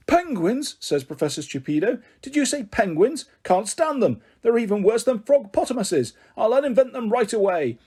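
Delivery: lightly voiced disgusted professor; outraged professor. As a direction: sneer at the very idea of penguins. Professor rants about penguins.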